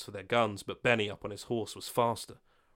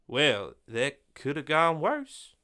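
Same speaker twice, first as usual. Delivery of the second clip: wry relief; 5 semitones higher, 4 dB louder, much slower than usual. Acted. Benny wry after standoff.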